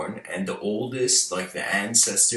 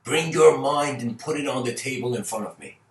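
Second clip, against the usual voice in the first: mock lion roar; 4 semitones higher than usual. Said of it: "he roars at him and says".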